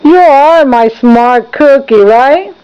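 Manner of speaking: slow, tender praise; warm praise. Real, not acted. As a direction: praise gently, drawn out. Praising toddler.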